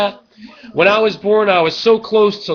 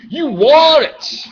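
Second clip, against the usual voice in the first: hype pitch; 8 semitones higher, 5 dB louder than usual. Acted. Hyping his show to the viewers, high loud shouting. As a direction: pump the viewers up like a carnival barker.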